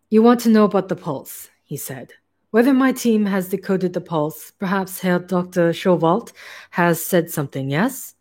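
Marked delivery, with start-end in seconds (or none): 0.1-1.5 put-on light German accent for the hairless scientist; a hint of a German scientist's accent; German accent, lightly worn. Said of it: "I don't know why this accent". 2.5-8.1 put-on light German accent for the hairless scientist; a hint of a German scientist's accent; German accent, lightly worn. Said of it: "I don't know why this accent".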